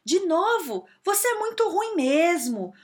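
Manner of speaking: desprezo agudo e mais alto, devagar; chefe humilhando. Retold or imitated. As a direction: humilhe o funcionário com desdém. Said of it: "ele fala assim". (imitando o chefe que humilha, com desprezo)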